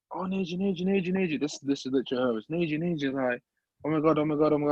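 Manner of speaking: retold giddy phone-call babble; excited agent. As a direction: gush the name over and over in mock excitement. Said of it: "She's excited, she's not vexed or upset".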